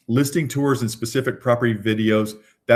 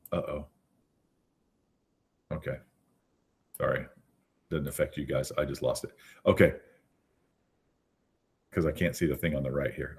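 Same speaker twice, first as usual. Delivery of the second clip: much softer and lower aside; low mutter; 7 semitones lower, 8 dB quieter than usual. Real, not acted. Presenter to the group after losing the screen, low mutter. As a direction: murmur it, half to yourself.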